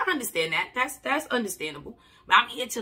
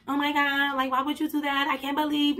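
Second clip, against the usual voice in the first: mock sympathy; 4 semitones higher than usual. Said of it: "you expecting my response to be like".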